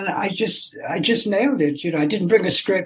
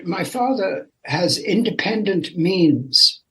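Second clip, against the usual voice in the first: slow, lofty mock British reply; a hint of upper-class British; mock posh British; slower than usual. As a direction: say it as a snooty English heir, slowly. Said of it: "I said".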